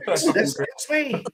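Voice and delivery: high, squeaky mimicry; imitating Chris. Repeating the punchline for laughs, high mimicked reply. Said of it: "And Chris is like".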